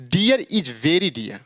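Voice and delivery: slow "dear is very dear", last "dear" as dee-yaa; linking and silent r. Shown as a demonstration. Teacher models the corrected sentence slowly, final "dear" without r. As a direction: link "dear" to is, drop the final r. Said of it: "तो इसे क्या पढ़ना पड़ेगा".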